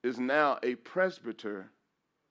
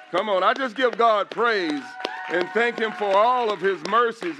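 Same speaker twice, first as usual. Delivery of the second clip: loud, high, ringing praise; preaching at full force; 5 semitones higher, 6 dB louder than usual. Acted. Pastor to the congregation, preaching loud and high. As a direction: lift the church up with it.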